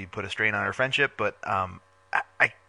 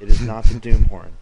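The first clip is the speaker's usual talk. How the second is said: louder flat no; firm loud denial; 3 semitones lower, 10 dB louder than usual. Real, not acted. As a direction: shut the idea down firmly.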